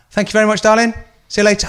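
high, sing-song mock sweetness; sarcastic thanks. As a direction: kill her with fake politeness, pitched high. Sarcastic goodbye to shop woman.

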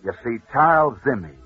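building radio storyteller, punching the climax; dramatic story narration. Acted. Radio host telling listeners a sports legend, dramatic narration. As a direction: tell it like a rousing radio legend.

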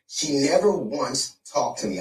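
"never once" drawn out with emphasis; emphatic. Real, not acted. Comedian insisting she did not approach him, emphatic on "never once". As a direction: lean slowly and firmly on "never once". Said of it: "I emphatically emphasize this".

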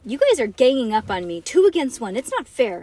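put-on mildly indignant kid complaint; huffy. A narrator's reading. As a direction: huff at being ganged up on. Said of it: "huffed Bean".

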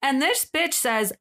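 dramatized tweet thread with touches of Southern, quotes pitched high and sassy; story narration. Acted. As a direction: read it like a juicy story, acting out each quote. Read it like a story.

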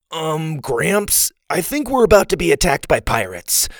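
put-on high-pitched child's alarm; alarmed cry. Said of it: "Sawyer cried".

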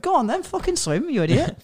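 high, mocking yell at a nervous kid; mock harsh instructor. Instructor yelling at a scared kid in the pool, mock harsh. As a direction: bark it like an impatient swimming teacher. Mock swimming teacher shouting.

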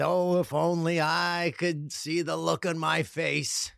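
lightly voiced commercial kid, drawn out; wistful mock kid line, taken slowly; imitating the kid. Kid in a bike commercial to his dad, lightly imitated kid. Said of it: "the kid says".

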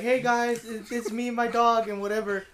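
girl starting her dog video, mock influencer cheer; vlogger intro. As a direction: imitate a chirpy influencer opening. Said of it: "trying to go like".

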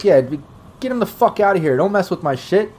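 annoyed guard. Acted. Guard to intruders at his trailer, mildly annoyed. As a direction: shoo them off, a touch irritated. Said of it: "looks up and he's like".

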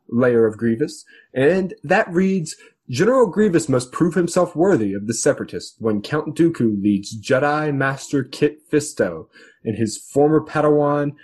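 dramatic trailer announcer intro; Clone Wars announcer voice. Pretend. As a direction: boom it out like the show's narrator. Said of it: "I run out of my Clone Wars announcer voice".

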